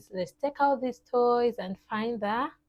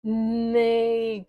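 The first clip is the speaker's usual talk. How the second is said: long spoken neigh; horse neigh; 4 dB louder than usual. Acted. Teacher repeating the horse's sound, a drawn-out neigh. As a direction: stretch out the neigh slowly. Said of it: "goes the horse".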